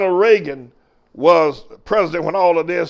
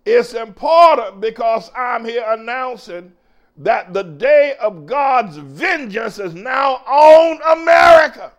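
rising preacher's shout on America; shouted proclamation; 6 semitones higher, 4 dB louder than usual. Real, not acted. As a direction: shout it, climbing to a cry. Proclaiming God's vengeance on America.

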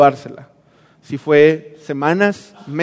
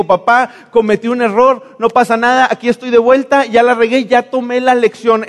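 light and carefree, pitched higher, as if it's no big deal; breezy and flippant; 5 semitones higher than usual. Acted. The careless son telling his dad it's fine, breezy and flippant. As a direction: shrug it all off cheerfully.

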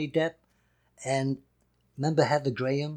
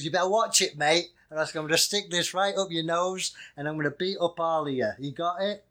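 light northern English threat, slightly raised; northern English tough guy; 4 semitones higher than usual. Acted. Host imitating big northern villains, mock-threatening northern accent. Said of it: "he's a northern dude".

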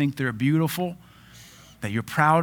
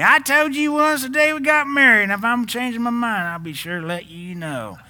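much higher, louder hammed-up Tennessee redneck voice, fading down at the end; redneck Tennessee accent; 10 semitones higher, 5 dB louder than usual. Preacher playing a stupid redneck husband answering his wife, in an exaggerated Tennessee accent. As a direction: crank the redneck Tennessee impression way up, then let it sag. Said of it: "you always gotta do the redneck Tennessee accent".

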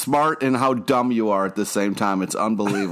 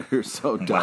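laughing. Real, not acted.

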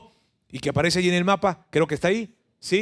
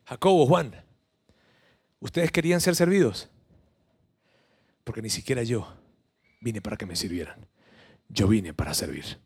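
gentle reproof; 8 semitones lower than usual. Acted. Voicing Jesus to James, John.

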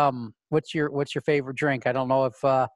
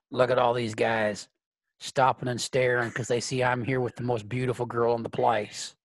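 low character voice, voiced aside rather than whisper; Clint, confiding; 4 semitones lower than usual. Clint leaning over to his date, low confiding voice. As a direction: lean in and confide, pitched down a little. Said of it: "Clint leans over and whispers to you".

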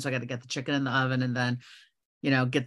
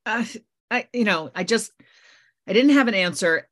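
snappy tone; 6 semitones higher, 5 dB louder than usual. Retold or imitated. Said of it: "I kind of snapped at him".

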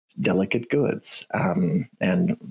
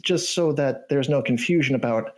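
canary voice; 6 semitones higher than usual. Acted. Canary NPC warns about box.

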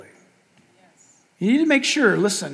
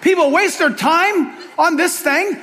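mock criticizing; 7 semitones higher than usual. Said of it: "So I'm criticizing".

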